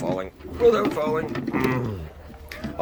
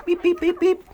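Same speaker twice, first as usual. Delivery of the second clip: calling the birds; 4 dB louder than usual. Acted. Calling chickens.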